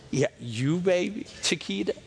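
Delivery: lightly voiced sly flatterer; smooth-talking snake. Snake reassures Eve she is the one, smooth-talking. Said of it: "mesmerizing her".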